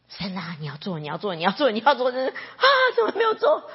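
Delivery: crying prayer rising to a high wail; tearful pleading. Acted. Believer demanding God act, crying and rising. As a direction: plead with God through tears.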